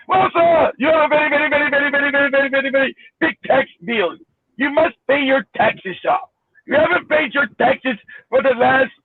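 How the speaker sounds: mock Indian accent with rattled-off repetition. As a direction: deliver a formal demand in an imitated Indian accent. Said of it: "with an Indian accent".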